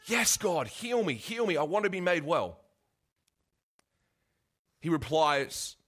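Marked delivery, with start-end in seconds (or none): 0.0-2.6 high, pleading cry for healing; desperate plea. Retold or imitated. Preacher acts the reply the lame man never gave, desperate plea. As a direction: beg to be healed, much higher. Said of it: "The man doesn't say".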